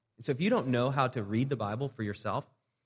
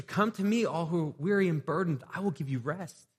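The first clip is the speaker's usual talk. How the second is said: reading scripture; 6 semitones higher than usual. Acted. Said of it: "you read a scripture".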